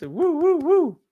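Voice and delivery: high, loud cheering woos; whooping in celebration; excited cheer. Real, not acted. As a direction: cheer the class on. Celebrating the class.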